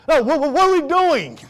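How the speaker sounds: high, insistent stammered nagging; pestering kid. Acted. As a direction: act out a child who won't let dad rest. Kids insist to tired dad.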